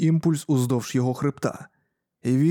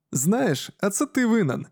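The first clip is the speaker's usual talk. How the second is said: higher, amused teasing; smiling; 7 semitones higher than usual. A narrator's reading. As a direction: tease him with a grin. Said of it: "посміхаючись". (з усмішкою)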